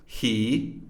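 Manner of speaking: "He" in full, with the h sounded; strong form. Shown as a demonstration. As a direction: citation form of "He". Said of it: "reduced to e".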